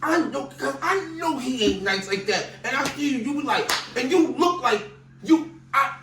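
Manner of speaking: high, loud teasing with laughter; laughing at the host's sweaty play. Real, not acted.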